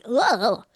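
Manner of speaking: short groan of disgust; a mild mock groan of revulsion; disgusted ugh. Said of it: "And I was like".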